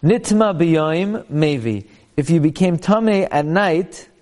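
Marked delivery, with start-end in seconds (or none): 0.0-1.9 "Nitma B'Yoim" drawn out slowly, then "Mevi"; phrased reading. Shown as a demonstration. Teacher shows class how to read the line, phrased slowly. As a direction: stretch "Nitma B'Yoim" as one unit, then land on "Mevi". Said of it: "So you read it like this".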